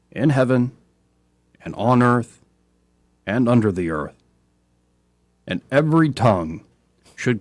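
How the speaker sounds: measured reading with long pauses after phrases; slow scripture reading. Real, not acted. Host reading Paul's hymn slowly to radio listeners, deliberate and spaced out. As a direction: read it out slowly, phrase by phrase, stressing key words. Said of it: "I'm gonna read it slowly".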